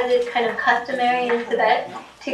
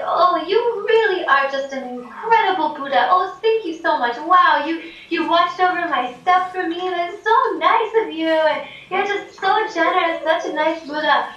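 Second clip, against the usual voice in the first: higher, overflowing thanks; grateful gushing; 5 semitones higher than usual. Retold or imitated. Ben thanking the Buddha for guarding his stuff, higher and gushing. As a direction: pour out thanks like a delighted pilgrim. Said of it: "and he's like".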